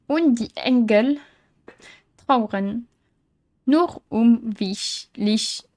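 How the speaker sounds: slow, halting reading with gaps between words; hesitant, deliberate learner's German; reading German aloud. Real, not acted. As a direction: pick through foreign text word by word. Reads a German note haltingly aloud.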